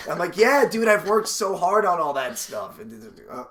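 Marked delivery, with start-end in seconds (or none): 0.4-2.8 higher, louder, stretched-out effeminate comic voice; effeminate Puerto Rican man. Acted. Comic bragging to a fan offstage, effeminate Puerto Rican voice. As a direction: draw it out proudly in a put-on effeminate voice. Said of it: "a rather effeminate Puerto Rican man".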